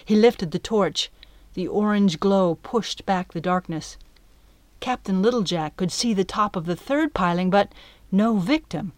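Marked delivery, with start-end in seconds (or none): none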